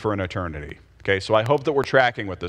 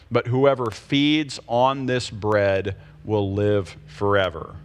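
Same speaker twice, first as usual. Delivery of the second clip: measured, unhurried reading of the verses; slow scripture reading. Shown as a demonstration. Pastor rereading the passage slowly to the class, measured and unhurried. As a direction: read each verse slowly and deliberately. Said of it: "I'm gonna read this again slowly".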